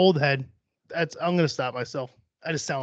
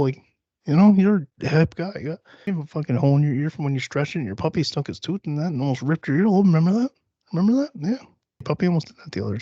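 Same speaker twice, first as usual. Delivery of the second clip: mock pep talk; 3 semitones higher, 3 dB louder than usual. Host reassuring themself they're not an old man, mock encouraging. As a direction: hype yourself up in a coaxing voice.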